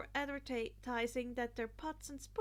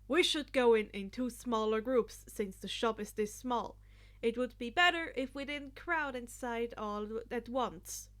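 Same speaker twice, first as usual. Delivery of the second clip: louder, formal lecturing tone; explaining; 6 dB louder than usual. Acted. Ida stopping Mina to explain rules, louder and proper. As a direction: lay it out like a class rep. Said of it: "Ida explained".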